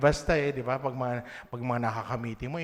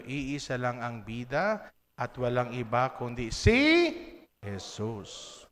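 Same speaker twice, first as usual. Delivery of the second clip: slow model line; slower than usual. Shown as a demonstration. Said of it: "Sabihin niyo".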